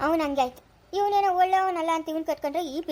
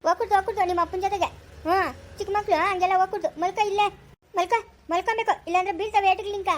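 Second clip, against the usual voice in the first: sing-song coaxing, higher and quicker; high coaxing to a child; 5 semitones higher than usual. Acted. Neighbour coaxes the crying child to lie down, high and quick. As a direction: coax the little girl into lying down.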